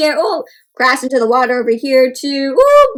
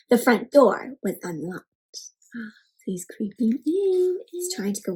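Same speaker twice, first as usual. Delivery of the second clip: hushed, creeping whisper; sneaky whisper; 4 semitones lower, 6 dB quieter than usual. A narrator's reading. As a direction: tiptoe with your voice. Bear sneaking into house.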